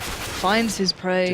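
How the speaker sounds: very slow hushed wildlife narration; nature documentary voice. Pretend. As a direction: draw it out like a nature film. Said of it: "nature documentary voice".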